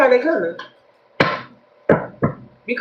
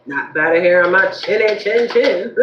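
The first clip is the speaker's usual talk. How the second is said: laughing mock refusal. Playful fairy-tale quote.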